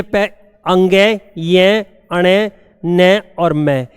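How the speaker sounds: teacher spells each nasal letter slowly. Shown as a demonstration. Teacher drawing out the nasal letters for students, slow and clear. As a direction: draw out every nasal letter for the class. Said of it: "ये last के जितने भी है".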